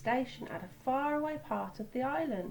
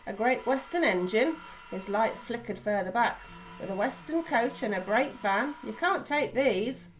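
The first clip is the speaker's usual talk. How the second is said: stern foreman; 5 dB louder than usual. Acted. Suspicious foreman stops the engines.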